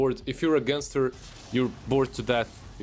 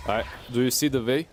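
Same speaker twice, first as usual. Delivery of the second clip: bad Slavic accent. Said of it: "my bad Slavic accent".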